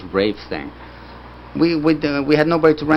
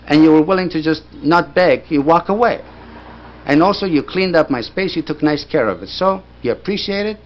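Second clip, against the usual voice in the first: higher, punchy retold speech; emphatic studio boss; 4 semitones higher, 3 dB louder than usual. Studio owner praising the newcomer who didn't beg, emphatic. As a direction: drive each reason home as the boss. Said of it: "that's how he talked".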